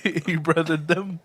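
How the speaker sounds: slow, laughing repeat of the joke. Real, not acted. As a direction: savour it through a laugh.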